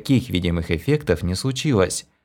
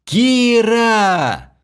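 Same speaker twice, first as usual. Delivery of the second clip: despairing outcry; 8 semitones higher, 3 dB louder than usual. A narrator's reading. Hero despairs at abandonment.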